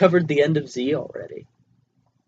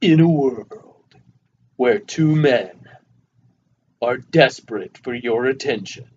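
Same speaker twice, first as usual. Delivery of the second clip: mock trailer announcer; slower than usual. Mock movie trailer voice-over.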